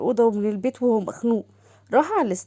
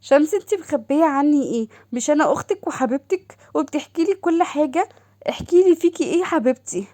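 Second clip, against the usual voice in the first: higher, eager sister calling; sister's voice; 4 semitones higher than usual. Acted. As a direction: gush over her sister on the phone. Doha presses sister. (صوت أخت متلهفة أعلى)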